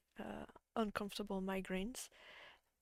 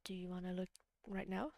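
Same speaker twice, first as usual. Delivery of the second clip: whispering; 2 semitones lower, 7 dB quieter than usual. Real, not acted. Quiet aside to friend.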